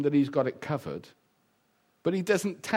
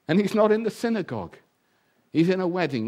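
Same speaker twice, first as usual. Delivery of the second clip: preaching loud; 4 semitones higher, 5 dB louder than usual. Real, not acted.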